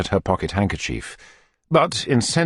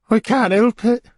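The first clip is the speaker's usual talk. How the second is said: Missus Corney; 4 dB louder than usual. Acted.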